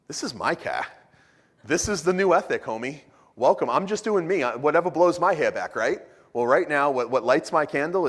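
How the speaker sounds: playing the smug thief to his friend, cocky and loud; smug mock relativist. Mocking smug relativist reply.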